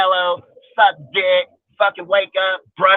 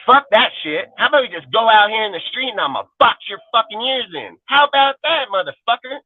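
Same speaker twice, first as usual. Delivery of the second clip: aggressive challenge; 6 semitones higher than usual. Retold or imitated. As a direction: call him out to fight, rising to a peak on how about that. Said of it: "I'd say it like this".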